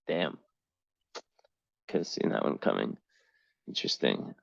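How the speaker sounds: breathy whisper to herself; whispered aside. Real, not acted. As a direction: mutter it under your breath. Muttering to self over chart.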